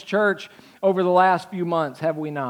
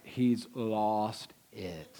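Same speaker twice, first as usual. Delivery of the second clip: lower, softer, slow; low doubtful murmur; 9 semitones lower, 12 dB quieter, much slower than usual. Retold or imitated. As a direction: mutter it to the person beside you. Crowd mutters about Jesus.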